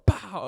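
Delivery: high "pow" punch sound; quick high-pitched pow; imitated punch noise. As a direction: throw out a pow like a punch landing.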